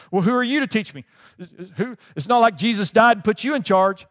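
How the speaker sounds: acted huffy challenge; mock indignation. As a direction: bristle like someone refusing correction. Acting out offended person being corrected.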